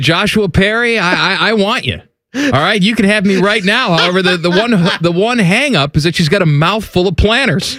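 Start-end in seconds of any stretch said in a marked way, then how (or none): 0.0-4.0 seductive woman. Retold or imitated. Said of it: "She says".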